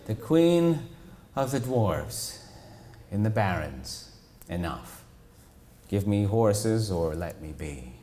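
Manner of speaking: slow, lightly voiced giant turtle. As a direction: rumble it out like an old turtle. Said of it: "I'm really working my turtle voice".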